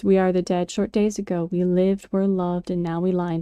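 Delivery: measured poem reading; solemn war poem read aloud; poem recital. Acted. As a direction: recite the verse with care. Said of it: "The second verse is".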